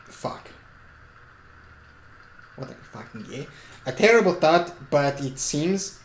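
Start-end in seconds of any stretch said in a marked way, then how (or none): 3.9-6.0 put-on muddled Swiss-slash-German accent; halting Swiss-German character accent. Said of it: "I'm doing the fucking Swiss accent slash German accent".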